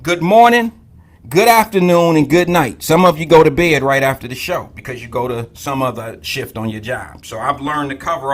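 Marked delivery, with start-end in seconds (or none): 0.0-2.8 greeting everyone. Real, not acted. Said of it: "we gonna say it all to everybody".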